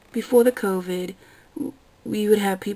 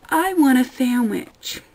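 slow, louder, higher mock customer; mock dim customer; 4 semitones higher, 5 dB louder, slower than usual. Server mocking a customer's obvious order, slow and dopey. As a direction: drag it out like a clueless orderer.

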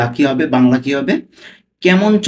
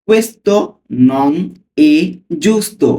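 slow reading; 2 semitones higher, much slower than usual. Shown as a demonstration. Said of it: "slowly পড়ছি".

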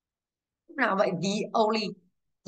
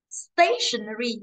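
stationery slowed, with a punched STA; stress on first syllable; much slower than usual. Shown as a demonstration. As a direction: stretch stationery out, leaning on STA. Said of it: "Âm một chứ".

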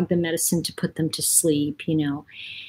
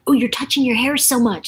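higher mock complaint; quoting a nitpicker, pitched up; complaining commenter; 5 semitones higher than usual. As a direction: lightly mimic a fussy online critic. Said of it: "somebody posted on one of my videos".

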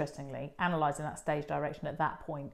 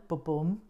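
da-DUM heartbeat stress; heartbeat rhythm. Shown as a demonstration. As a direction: tap out the iamb like a heartbeat. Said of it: "like the heartbeat rhythm".

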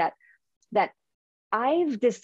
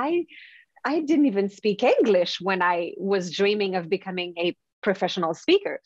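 usual speaking voice

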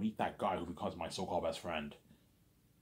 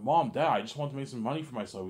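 put-on pleading teen; 6 semitones higher, 6 dB louder than usual. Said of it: "I'm like".

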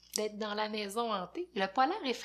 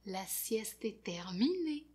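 soft, unvoiced; whisper; 7 dB quieter than usual. Friends whispering that nap time is over. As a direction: whisper it gently.

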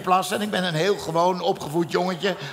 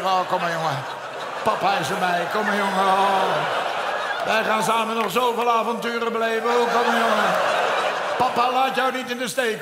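mock soothing. Troost zijn brandende penis.

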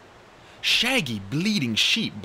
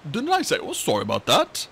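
lightly voiced sleepy mumble; a hint of a drowsy dragonette; mumbled; 2 semitones higher, 4 dB louder than usual. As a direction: mumble through a mouthful. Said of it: "Coconut mumbled".

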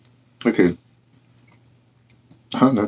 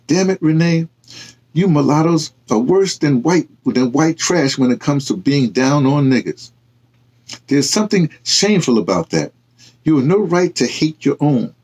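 raised, scolding rebuke; mild exasperated scolding; 5 semitones higher than usual. Acted. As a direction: chide a friend who should know better. Tyler scolds Renee.

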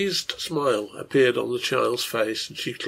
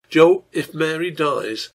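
gathering strength; 4 semitones higher, 5 dB louder, slower than usual. Acted. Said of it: "a voice that gathered strength".

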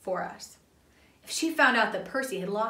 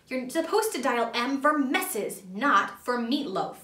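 yelled; 3 semitones higher, 3 dB louder, slower than usual. Acted. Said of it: "I yelled into the phone".

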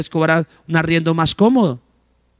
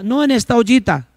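high, humble voice; voicing a poor neighbour; 6 semitones higher than usual. Preacher acting a poor host showing her only pot, high and humble. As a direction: show your one little pot humbly.

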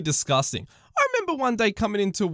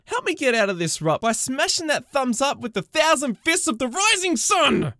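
hammed-up hype. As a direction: go big like a shonen hero. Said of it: "over-the-top call to like".

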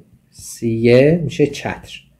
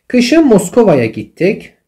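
slow reading; 7 semitones higher, 4 dB louder, much slower than usual. Shown as a demonstration. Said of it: "teacher reads example sentence slowly".

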